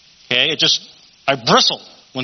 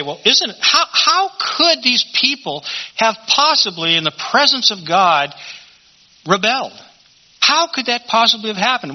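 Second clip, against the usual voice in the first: incredulous questioning; 8 semitones higher than usual. Acted. Preacher voices doubters asking about rebellion, incredulous. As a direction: voice a baffled objector, pitched well up.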